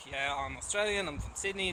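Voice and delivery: imitating an Australian from Sydney; lightly put-on Australian accent. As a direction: do your best Australian accent. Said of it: "put on my best Australian accent".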